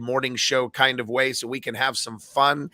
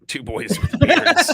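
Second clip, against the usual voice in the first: high voice; 8 dB louder, slower than usual. Pretend. Mock dramatic echo of co-host.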